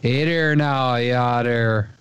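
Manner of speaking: drawn-out imitation Yooper accent. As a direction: do a light parody of a Yooper accent. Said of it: "if you're from the Yooper".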